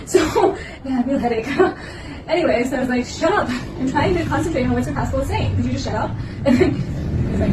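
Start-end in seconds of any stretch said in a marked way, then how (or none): 3.1-6.1 retold exasperation. Retold plea to singing classmate.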